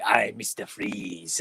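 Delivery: low, slow movie-villain impression; mock villain catchphrase delivery; Mister Freeze. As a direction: draw it out, pitched well down. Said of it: "where he was like".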